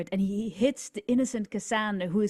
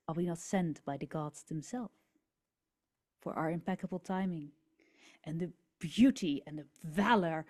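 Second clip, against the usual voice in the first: fast then soft, persuasive plea; persuasive hero speech; 2 semitones lower, 4 dB quieter, faster than usual. Acted. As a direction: coax the crowd gently. Cassandra persuades the crowd.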